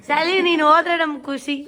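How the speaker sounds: laughing through the words, rising on ಹೋದ್ರೆ; playful laughing send-off; teasing laugh. Real, not acted. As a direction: tease her while chuckling. Teasing daughter who is leaving.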